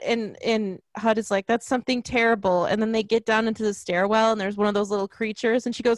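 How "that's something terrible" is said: usual speaking voice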